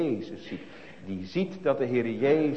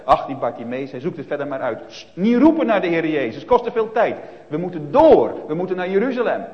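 brusque and impatient, building louder to We moeten door; selfish impatient crowd; 3 semitones higher, 7 dB louder than usual. Retold or imitated. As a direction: hurry him off, we have no time. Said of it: "Ze dachten dus alleen maar aan zichzelf". (ongeduldige menigte die Bartimaeus wegjaagt)

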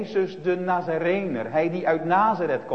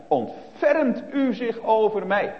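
imitated cry; 7 semitones higher, 3 dB louder, slower than usual. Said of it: "hij schreeuwt het bijna uit".

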